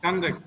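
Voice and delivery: conduct stressed on -duct; second-syllable stress. Shown as a demonstration. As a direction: model conduct as con-DUCT. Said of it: "The second syllable".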